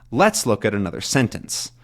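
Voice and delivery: "Let's" and "sentence" strong, middle words light. Shown as a demonstration. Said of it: "That's how I'd probably stress this sentence".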